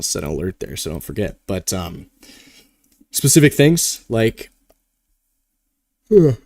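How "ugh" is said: yawn. Real, not acted. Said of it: "Sorry, I'm yawning".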